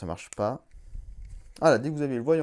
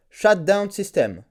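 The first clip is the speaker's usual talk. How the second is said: slow voice command; 2 semitones higher, 4 dB louder, slower than usual. Real, not acted. Voice command to the helmet.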